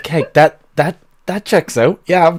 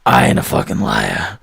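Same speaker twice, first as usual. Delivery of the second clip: angry denial. Acted. GM voices brawling tavern patron.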